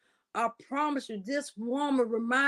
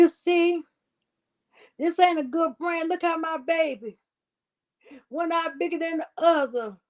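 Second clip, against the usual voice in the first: mock worried mother; 3 semitones higher than usual. Acting out the pregnant woman blaming.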